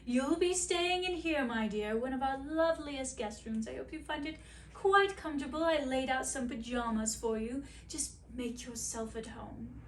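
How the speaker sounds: a hint of a sugary hostess queen; queen welcoming her guest, lightly sweet. Queen voiced in fairy tale.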